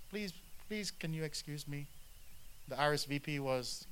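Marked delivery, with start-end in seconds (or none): 0.1-1.9 mock plea. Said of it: "they got these answers".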